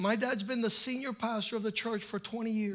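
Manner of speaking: soft, low earnest preaching; hushed, low pastor's reflection; quiet sermon. Acted.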